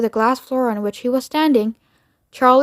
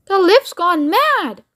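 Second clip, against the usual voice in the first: high, slow fright; old man crying out; alarmed shout; 7 semitones higher, slower than usual. Acted. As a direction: Grandpa Joe in a panic. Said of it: "shouted Grandpa Joe".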